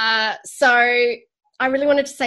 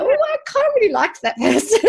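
laughing quote; 11 semitones higher, 5 dB louder, faster than usual. Retold or imitated. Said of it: "sometimes you go".

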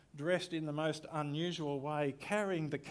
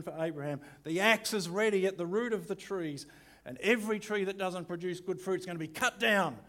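dramatic preaching; 3 semitones higher, 5 dB louder than usual. Shown as a demonstration. Pastor voicing John the Baptist to the crowds, loud and fiery. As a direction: rail at the crowd like a prophet. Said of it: "in my best dramatic voice".

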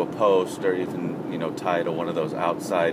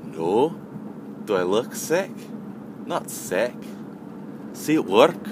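imitated European accent, broken into short phrases. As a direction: protest in a put-on European accent. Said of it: "a European accent".

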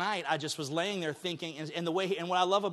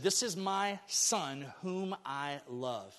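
slow tender quote; 3 dB quieter, much slower than usual. Acted. Quoting God slowly.

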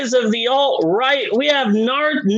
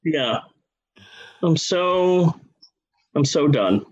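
much lower, laughing, worn-out voice; mock exhausted resignation; 12 semitones lower than usual. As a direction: let it all sag in defeat.

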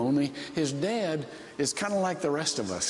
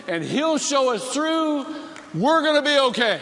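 son's prayer rising to a shout; 5 semitones higher, 4 dB louder than usual. Retold or imitated. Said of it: "and he says".

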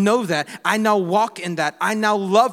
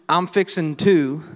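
Southern drawl; slower than usual. Retold or imitated. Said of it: "if somebody is telling you".

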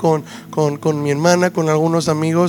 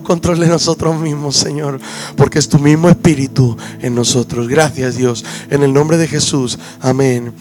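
prayer winding down. Real, not acted. Preacher closes the prayer in Jesus' name, prayer winding down. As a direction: let the prayer settle gently into amen.

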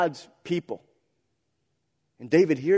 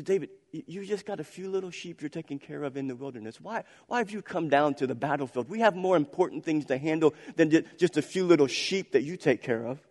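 mocking older brother; 6 dB quieter than usual. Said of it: "the mockery in his brother's voice".

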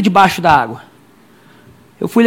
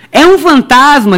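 frightened cry; 5 semitones higher, slower than usual. Retold or imitated. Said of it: "gritaram cheios de medo".

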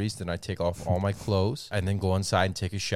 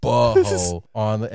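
imitating club staff; 2 semitones higher, 6 dB louder than usual. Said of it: "And he was like".

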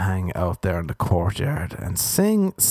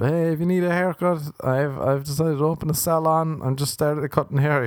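Instagram model pitch; 6 semitones higher than usual. Retold or imitated. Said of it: "They've been hitting me up".

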